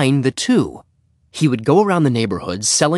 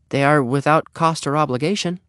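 raised, tentative sales line; lamely; 5 semitones higher than usual. Acted. Henry runs out of selling points, lame and tentative. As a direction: offer it as a feeble last try. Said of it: "he said lamely".

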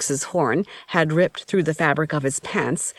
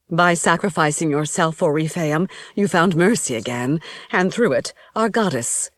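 a lightly raised, grave priestess voice. Acted. High Priestess continues.

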